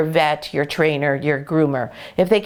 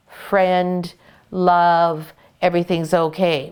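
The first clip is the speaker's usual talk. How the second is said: reassuring; slower than usual. Shown as a demonstration. Voicing what soft body language tells dogs.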